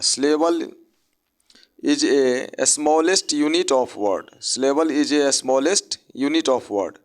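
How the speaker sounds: definition dictated slowly; slow dictation. Shown as a demonstration. Teacher slowly dictates a definition of syllable. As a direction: say the definition slowly for note-taking. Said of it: "slow dictated definition".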